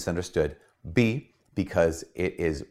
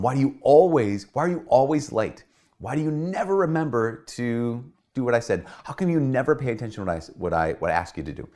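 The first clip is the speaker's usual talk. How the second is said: critical nagging partner; 5 semitones higher than usual. Retold or imitated. Critical spouse nagging about lateness, accusing and exasperated. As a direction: fire off complaints at your partner.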